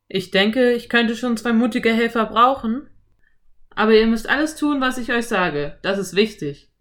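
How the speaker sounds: cowboy explaining nicknames. A narrator's reading. Cowboy sets terms. (Cowboy, laut und flott)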